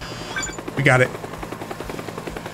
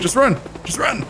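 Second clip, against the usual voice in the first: panicking gamer; 9 semitones higher than usual. Real, not acted. Fleeing helicopter.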